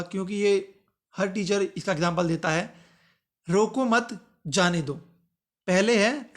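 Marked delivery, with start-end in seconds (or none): 3.5-4.9 "रोको मत" as one unit, pause, then "जाने दो"; slow reading, breaking right after मत. Shown as a demonstration. Teacher reading the classic punctuation example, pause after मत. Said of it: "अब मत के बाद विराम चिन्ह लगा दिया तो".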